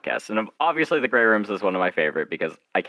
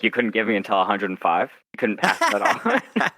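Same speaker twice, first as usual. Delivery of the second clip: mock indignant; 2 semitones higher than usual. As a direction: pretend to haggle for one more year. Mock complaint about lifespan.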